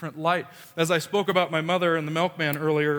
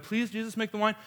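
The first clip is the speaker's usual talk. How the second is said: higher, softer pleading voice; mock begging; 4 semitones higher, 4 dB quieter than usual. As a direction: plead in a small, raised voice. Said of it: "try to rebuttal Jesus and be like".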